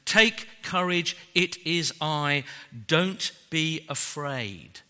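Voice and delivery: slow, gentle, calm reassurance; reassuring. Retold or imitated. Jesus calming terrified disciples, slow and gentle. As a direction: soothe a frightened friend. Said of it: "Jesus immediately said to them".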